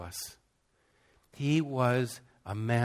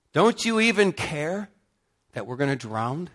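shout; 6 semitones higher, 6 dB louder than usual. Retold or imitated. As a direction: cry it out like men in a storm. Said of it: "their shout is".

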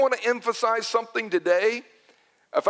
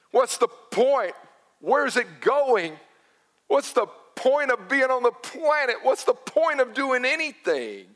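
mildly raised, stretched-out exasperation; exasperated questioning; 4 semitones higher than usual. Acted. Preacher voices Solomon questioning existence, exasperated. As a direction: demand an answer, drawing out the key words.

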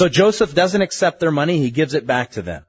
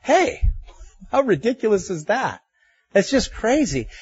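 exasperated exclamation; 7 semitones higher than usual. Real, not acted. Preacher exclaims at absurdity.

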